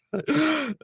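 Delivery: sudden high giggle; short high-pitched laugh. Real, not acted. Laughing at a funny comment.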